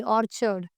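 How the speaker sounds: ऑर्चर्ड with a "ch" in the middle; ch sound. Shown as a demonstration. Teacher showing students the sound, ऑर्चर्ड with a clear च. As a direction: say ऑर्चर्ड as "or-churd", ch as च. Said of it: "इसमें च का sound है".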